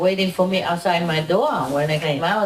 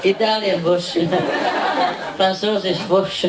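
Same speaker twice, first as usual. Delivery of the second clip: laughing through the words; chuckling while joking. Real, not acted. Joking about sausage, laughing.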